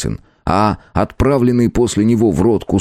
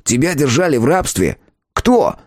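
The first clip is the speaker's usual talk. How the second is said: lightly raised, cheeky elf voice; christmas elf; 7 semitones higher than usual. A narrator's reading. Elf character voice.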